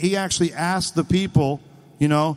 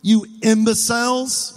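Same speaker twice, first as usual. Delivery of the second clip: mildly raised, exasperated questions; a touch of acted anger, pitched up; mad; 4 semitones higher than usual. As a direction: put the insult as frustrated mockery. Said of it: "he was mad".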